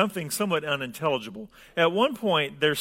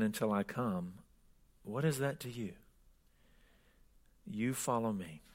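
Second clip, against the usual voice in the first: soft, lower reading voice; scripture reading; 4 semitones lower, 6 dB quieter than usual. Acted. Preacher reading the gospel to the congregation, scripture reading. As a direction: read it out quietly and solemnly.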